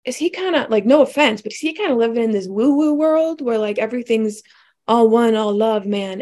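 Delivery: sceptical teasing. Retold or imitated. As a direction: poke gentle fun at the woo-woo idea. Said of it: "initially I was kinda like".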